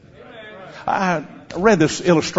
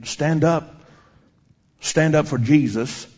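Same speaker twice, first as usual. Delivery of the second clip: slow, measured hymn recitation; retold hymn, recited. Preacher retelling a scared girl's hymn, slow recitation. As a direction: recite each line slowly with pauses between. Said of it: "singing in a little bitty voice".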